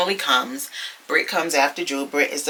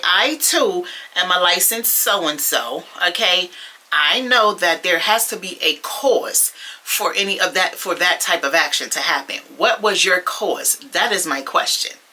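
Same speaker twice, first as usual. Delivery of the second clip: imitated firm, deliberate statement; measured retold cross-examination; clear and direct. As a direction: spell it out firmly, like quoting her. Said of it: "was very clear and direct".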